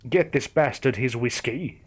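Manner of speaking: understated angry growl; a touch of barely held rage. Acted. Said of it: "he growled".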